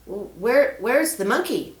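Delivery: put-on a worried kid asking for help; young boy Peter. Boy asks the snake about the scroll, eager. Child voice.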